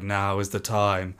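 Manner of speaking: mock-epic vow, rising high and loud; hammed-up hero declaring his moment; heroic self-talk. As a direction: proclaim it grandly, swelling as you go. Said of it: "this man is speaking to himself".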